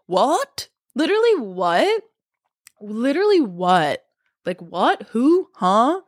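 can't believe what she heard; baffled. Real, not acted. Baffled by the meme.

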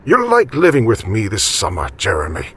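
grandfather's character voice, gently encouraging. A narrator's reading. Grandfather to Jeremy about living together this summer, encouraging. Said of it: "said in an encouraging tone".

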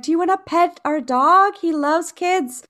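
put-on high and sweet, selling the dog to the kids; eager offer to kids. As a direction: coax the kids to pet the dog. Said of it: "we're like".

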